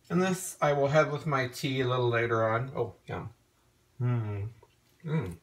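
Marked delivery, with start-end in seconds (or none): 2.7-5.4 talking while eating; mouth full. Real, not acted. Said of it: "Sorry, I'm eating some frosting".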